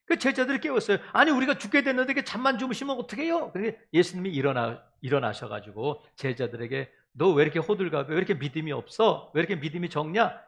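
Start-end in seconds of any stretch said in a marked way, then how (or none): 1.1-3.5 quick, hurried plea from the frightened disciples; fast, a touch of alarm; mild panic. Retold or imitated. 제자들이 다급히 예수를 깨움. 7.1-10.4 mild rebuke. Retold or imitated. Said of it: "이렇게 꾸짖으시고".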